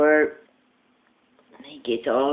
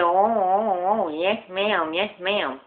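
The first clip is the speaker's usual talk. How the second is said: flustered lisping salesman; 3 semitones higher, slower than usual. Acted. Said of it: "he talks with a lisp".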